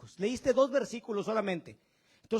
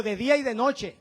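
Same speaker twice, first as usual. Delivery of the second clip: 1 call and response; 3 semitones higher, 9 dB louder than usual. Shown as a demonstration. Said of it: "Vamos, diga".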